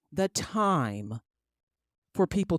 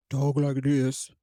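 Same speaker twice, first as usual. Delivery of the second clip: mock soft voice; 6 semitones lower, slower than usual. Shown as a demonstration.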